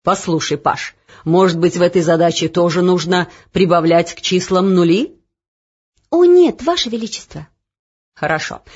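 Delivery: the puzzled king reasoning aloud; lightly voiced king. (король)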